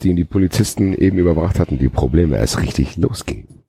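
measured read-aloud delivery; story narration. A narrator's reading. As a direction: read it out like an audiobook. Reads a novel aloud.

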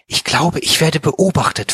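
plain reading voice

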